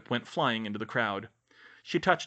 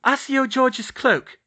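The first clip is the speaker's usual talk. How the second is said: high, loud, drawn-out incantation; commanding pitched-up spell cry; casting a spell; 13 semitones higher, 8 dB louder, slower than usual. A narrator's reading. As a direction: call out the summoning spell slowly. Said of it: "Hermione cast".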